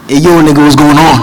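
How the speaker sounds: mock American accent from a Nigerian friend; put-on American slang. Friend showing off his new American accent, lightly mimicked. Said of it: "why are you talking like this?".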